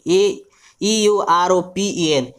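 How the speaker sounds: letters spaced out, slowly; slow spelling out. Shown as a demonstration. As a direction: spell it again for copying.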